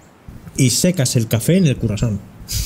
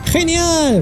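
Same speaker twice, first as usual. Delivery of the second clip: high hyped shout; fighting game announcer. Acted. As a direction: call it like an arcade announcer. Announcer call again.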